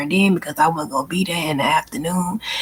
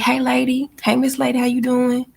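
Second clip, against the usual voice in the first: a lightly raised, breezy hello; sing-song greeting; 5 semitones higher than usual. Shown as a demonstration. Speaker showing coworkers how she greets, in a breezy sing-song. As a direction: greet a stranger casually and sweetly. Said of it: "Sometimes I'm like".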